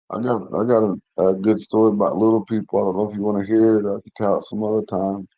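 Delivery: slightly hoarse, scratchy throat; rough voice. Real, not acted. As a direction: talk through a rough, worn throat. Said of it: "if your voice is a little rough".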